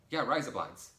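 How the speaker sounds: imitating an Australian; Australian man's accent. Australian guy echoes the phrase, light mock Australian accent. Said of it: "he was like".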